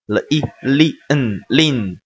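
"了一" joined into "哩", then "嗯" into "lin"; phonics blending demo. Shown as a demonstration. Teacher building the syllable lin, phonics blending demo. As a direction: sound out the pieces, then blend them as "lin". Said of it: "读嗯".

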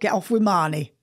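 copied Geordie, phrase by phrase; good Geordie attempt. Shown as a demonstration. Repeating after the coach, good Geordie accent attempt. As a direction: echo it neatly in Geordie. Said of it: "That was good".

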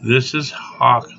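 ordinary talk, nothing marked

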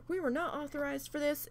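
high-pitched imitation of a seething manager; mock screaming without full volume; retold seething scream. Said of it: "she was just screaming, seething at me".

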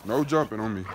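firm command to a jumping dog; firm scolding of dog. Real, not acted.

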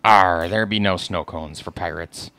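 slow growly arr pirate; lightly voiced pirate dad. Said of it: "will you keep doing your pirate voice?".

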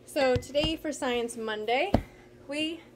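breathless after the jumps; out of breath. Real, not acted. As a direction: talk while catching your breath. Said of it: "I'm out of breath even from just doing that".

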